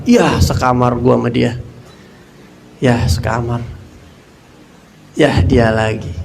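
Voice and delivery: lightly voiced annoyed santri; fed-up grumble. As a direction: sigh it out like you're sick of him. Grumbling about nasty roommate.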